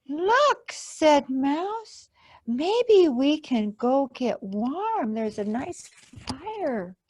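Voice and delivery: high, eager squeak of discovery; excited mouse. Acted. Mouse spots the campfire glow, high and eager. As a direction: point it out with a bright little gasp.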